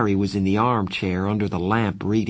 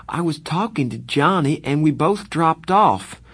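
pleading; 7 semitones higher, 4 dB louder than usual. Acted. Pleading continues.

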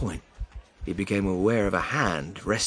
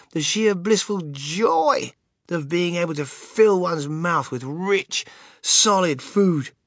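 savouring bliss; 5 semitones higher, 4 dB louder, slower than usual. A narrator's reading. Narrator savours the chocolate bite.

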